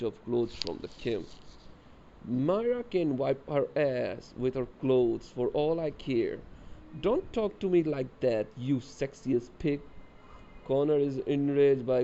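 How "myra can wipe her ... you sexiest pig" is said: put-on catty girl insult. Cory and Myra trade insults.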